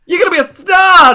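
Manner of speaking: high, loud gushing diva; gloating aunt voice. Acted. Lady Ziza taunting the player at the dice table, high gushing diva. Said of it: "GM hamming up the diva".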